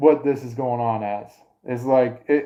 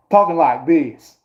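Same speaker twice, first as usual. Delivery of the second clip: higher, louder mock Southern twang; put-on Southern accent; 4 semitones higher, 6 dB louder than usual. Shown as a demonstration. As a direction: imitate a Northerner faking a Southern accent. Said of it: "came from the southern side of the United States".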